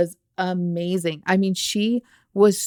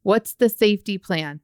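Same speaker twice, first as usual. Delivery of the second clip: upbeat praise. Retold or imitated. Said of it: "really give her that positive".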